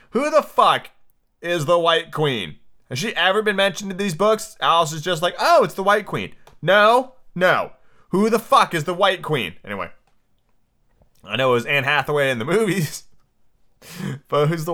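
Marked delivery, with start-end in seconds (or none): 0.1-9.6 can't believe this character appeared; who is this, frustrated and incredulous; exasperated disbelief. Real, not acted. Exasperated outburst at the book.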